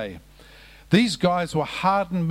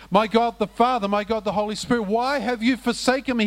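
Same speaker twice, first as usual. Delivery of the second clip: higher-pitched, mildly raised mock cry; preacher's raised, pleading retelling; retold anguished cry; 5 semitones higher than usual. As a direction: cry out to a God who has abandoned you, without shouting. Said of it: "cried out in a loud voice".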